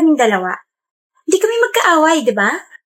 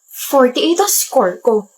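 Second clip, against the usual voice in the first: slow, drawn-out brag of the score; much slower than usual. Acted. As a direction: savour every word of the brag. Bragging about higher score. (mabagal na pagyayabang)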